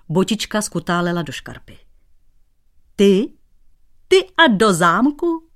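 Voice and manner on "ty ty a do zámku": high, loud mocking disbelief; mocking laugh. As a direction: laugh him to scorn. Cobbler laughs mocking him. (s posměšným smíchem)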